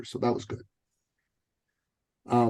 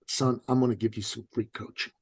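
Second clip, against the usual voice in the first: soft unvoiced whisper of the coach; hushed retelling; 3 semitones lower, 6 dB quieter than usual. Coach to young man, hushed whisper.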